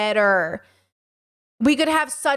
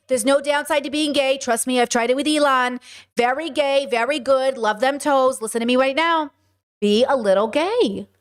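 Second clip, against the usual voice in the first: New York-tinged sales pitch, lightly voiced; Trump as Jersey guy. Streamer parodies the president endorsing being gay, Jersey-guy impression. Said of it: "I've made Trump into a guy from Jersey".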